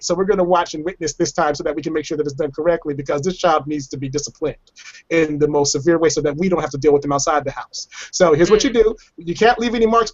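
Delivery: a hint of an officer calmly giving a tutorial; imitated police officer. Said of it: "The police showed up".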